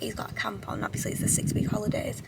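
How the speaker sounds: quick soft whisper. Real, not acted. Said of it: "So I'm gonna try and be quiet".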